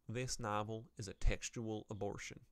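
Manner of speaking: put-on Southern US accent. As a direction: read the harsh title with a light Southern twang. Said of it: "reading in a southern accent once again".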